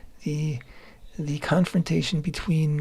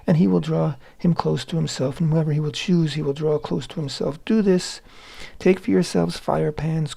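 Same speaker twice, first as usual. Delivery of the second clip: emphatic scripture reading. Acted. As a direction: proclaim the contest with raised voice.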